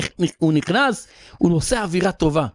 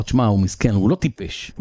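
lower, mildly conciliatory king; king calmed down; 6 semitones lower than usual. Retold or imitated. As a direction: relent a little, in a lowered pitch. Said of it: "נרגע קצת". (מלך שנרגע קצת, בטון נמוך)

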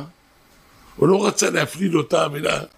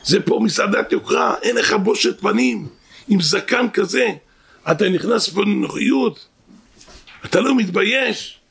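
retold angry scolding; 3 semitones higher than usual. Restaurant shift manager berating a poor family, retold indignant scolding. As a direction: imitate an outraged telling-off without shouting. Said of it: "צועק עליהם".

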